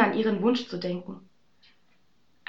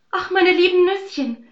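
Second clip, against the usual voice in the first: high, louder wail; lamenting; 9 semitones higher, 8 dB louder than usual. Acted. Aschenbrödel wailing over lost nuts, high. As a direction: cry out in dismay. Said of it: "jammerte es".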